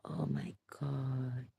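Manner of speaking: slow, breathless whisper; whispered oh my God. Real, not acted. Alarmed at her slurring speech, a slow whisper. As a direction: whisper it in dismay.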